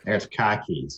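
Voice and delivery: "caw keys" with an open New York vowel; New York accent. Shown as a demonstration. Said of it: "in New York".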